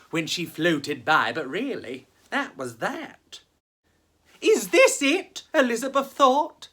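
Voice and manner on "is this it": put-on much higher, louder let-down girl voice; a young ghost deflated by her afterlife; high girlish dismay; disappointed ghost girl. Elizabeth's disappointed thought.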